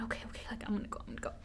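very soft, almost under the breath; inner voice. Retold or imitated. Talking herself into leaving the car, hushed inner voice. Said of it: "In my head, I'm thinking".

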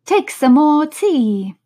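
slow, loud, earnest offer; earnestly. Acted. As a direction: press it on her earnestly. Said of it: "very earnestly".

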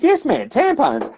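high, slow, drawn-out tampons; mock weary insistence; exasperated yes. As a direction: spell it out to the idiot.

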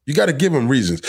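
ordinary talk

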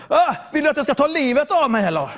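retold outburst. Quarrel with mother.

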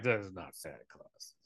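low, soft mock grown-up voice; dismissive adults. Adults doubting that he's Santa Claus, low dismissive murmur. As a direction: drop it low and quiet, imitating unbelieving adults. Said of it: "all the adults are like".

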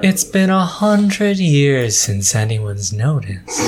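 gargoyle. Acted.

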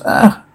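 short grunted "ah"; mock attack grunt. Reader acts out attack grunts, brief mock grunt. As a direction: token grunt of effort. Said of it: "Attack grunts".

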